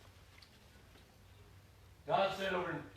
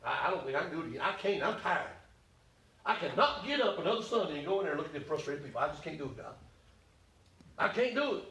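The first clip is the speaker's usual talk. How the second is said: weary Elijah. Acted. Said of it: "he said".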